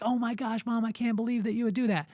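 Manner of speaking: high-pitched mock disbelief; appalled kid. Kid learns what mom put in the cookies, mock appalled. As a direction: imitate a child aghast at a parent.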